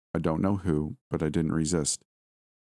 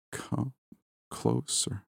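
softer, breathless whisper; dying whisper; 6 semitones higher, 5 dB quieter, much slower than usual. Acted. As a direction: barely get the words out. Dying husband summons her.

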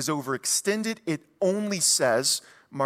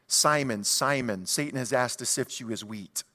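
lower, grave voice; voice of Jesus; 5 semitones lower, 4 dB quieter than usual. Acted. Jesus calling Saul, low and grave. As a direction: speak as a solemn divine voice. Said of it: "calls somebody by their first name twice".

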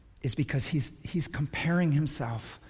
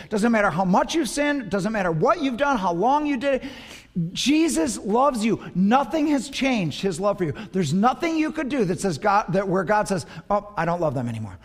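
impassioned preaching; 5 semitones higher, 4 dB louder than usual. Acted. Pastor to congregation, preaching love at full force. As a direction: plead with them from the pulpit. Altar-call preaching peak.

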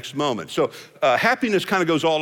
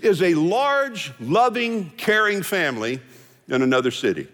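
George Burns line slowed; 2 semitones higher than usual. Retold or imitated. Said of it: "that old line by George Burns".

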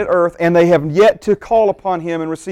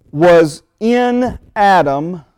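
slow "in Adam", leaning hard on "in"; stress on IN; much slower than usual. Real, not acted. Preacher stressing the key point to congregation, "in" drawn out. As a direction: draw out "in" as the key word. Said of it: "In my notes, it's capital I, capital N, double underline".

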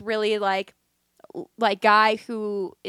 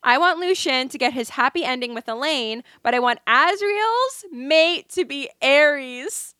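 emphatic read-out of a fan opinion; lively, deliberate post reading; reading aloud; 3 semitones higher than usual. Acted. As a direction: read it out like a bold declaration. Reads a TikTok theory aloud.

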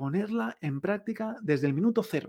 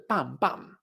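imitated shots; 4 dB quieter than usual. Shown as a demonstration. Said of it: "como dos disparos".

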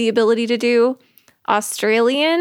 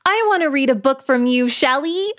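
slightly raised put-on voice; lightly played character, rising high on the name; a hint of silly audition voice; demo character voice; 4 semitones higher than usual. Shown as a demonstration. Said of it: "we do lots of different voices".

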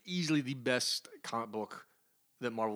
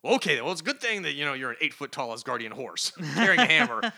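much higher, louder nervous backpedal; flustered Quill; 7 semitones higher, 10 dB louder than usual. Retold or imitated. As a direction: bluster then cave in fast. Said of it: "Quill's like".

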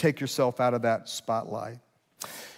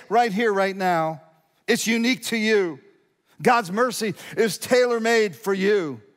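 high, ringing pulpit proclamation; emphatic, pitched-up preacher's delivery; full-force preaching; 7 semitones higher, 3 dB louder than usual. Real, not acted. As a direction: proclaim it with rising conviction.

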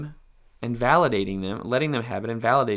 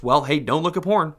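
dismissive dad; 4 semitones higher, 7 dB louder than usual. Retold or imitated.

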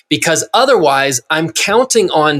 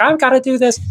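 high-pitched mock wife; imitated wife; 9 semitones higher, faster than usual. Husband telling buddies about his wife, in a high imitated voice. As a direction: put on a wife voice, much higher than your own. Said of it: "you're doing about your wife".

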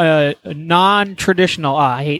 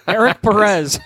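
laughing through the name; chuckling while repeating it. Real, not acted.

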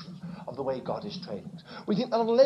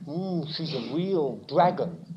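grumbling husband; 3 semitones lower, 3 dB quieter than usual. Retold or imitated. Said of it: "You say".

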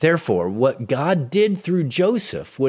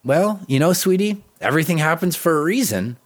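light, quick, sing-song brush-off; a breezy platitude at a bedside, lightly mocked; mock glib comfort; 5 semitones higher, faster than usual. Mother's pretend glib line to her daughter in pain, light and quick. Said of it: "I didn't say to her".

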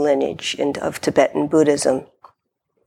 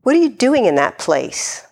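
mom's question; 5 semitones higher than usual. Retold or imitated. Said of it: "asked me one of her, um, questions".

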